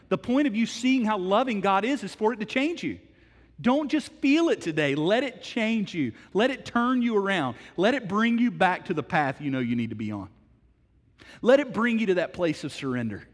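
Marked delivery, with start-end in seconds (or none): 3.6-13.3 fervent appeal. Real, not acted. Preacher's climactic appeal.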